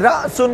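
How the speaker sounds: "রাসুন" with a separate hamza catch after রা; glottal catch. Shown as a demonstration. Teacher showing hamza is sounded separately, caught "রাসুন". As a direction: split "রাসুন" by a little jolt after রা. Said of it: "বললে আলাদা বলতেছি".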